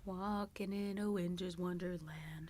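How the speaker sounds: whispered lyric line. Real, not acted. Answering the song quiz in a whisper. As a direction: whisper it almost shyly.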